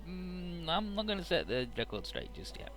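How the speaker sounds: secretive hush. Retold or imitated. To a teammate, quietly keeping the truth hidden. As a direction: mutter it like you're hiding something. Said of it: "And he's like".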